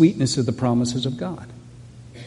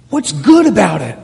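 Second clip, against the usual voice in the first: louder and higher, pressing the question hard on good; challenging question; 5 semitones higher, 8 dB louder than usual. Acted. Preacher challenging the congregation about Good Friday, loud. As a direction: throw "What's good about it?" at the room, punching good. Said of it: "Good Friday".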